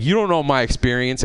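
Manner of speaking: mock a friend's outraged yelling; retold screaming. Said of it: "we're both screaming at this woman".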